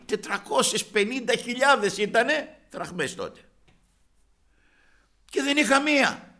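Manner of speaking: normal talking voice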